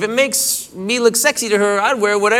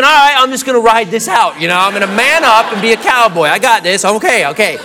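psyching himself up; 4 dB louder than usual. Retold or imitated. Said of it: "so I'm thinking".

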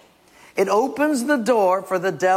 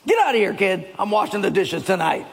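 mock gruff shooing; 3 semitones higher than usual. Skit: shooing wife away.

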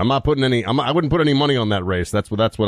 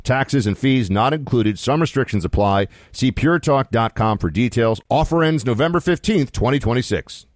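measured radio sponsor read; slower than usual. Acted. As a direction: sell the offer like a radio host. Reads a sponsor ad.

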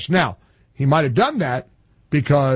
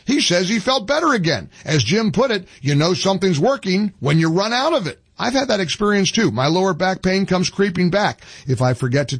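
polished sales pitch with lively pitch swings; radio ad read; 3 semitones higher than usual. Acted. Host pitching supplements to radio listeners, animated ad read. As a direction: read it as a testimonial-style radio commercial.

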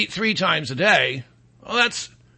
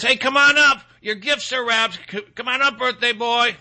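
higher, sing-song mock mom calling her son up; mom calling down the stairs; 4 semitones higher than usual. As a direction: call the birthday boy up like a cheery mom. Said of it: "mom yells down the stairs".

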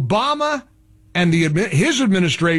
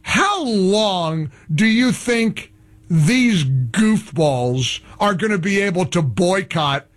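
ordinary talk

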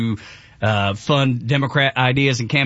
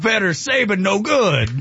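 caveman voice; 8 semitones higher than usual. Pretend. Continuing the caveman bit.

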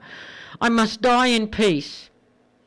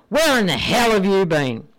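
a mock furious wife, a bit louder; 3 dB louder than usual. Waiting wife scolding husband home late, mock furious. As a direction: read the wife's fury with a touch of heat. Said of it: "she's furious".

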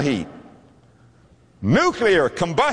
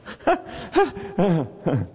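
gentle chuckle; 2 semitones higher than usual. Retold or imitated. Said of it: "he begins to laugh".

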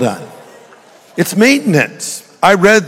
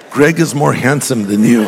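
said through a laugh; joking line; 4 semitones lower than usual. Pretend. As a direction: tease the wives with a grin. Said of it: "Repeat after me".

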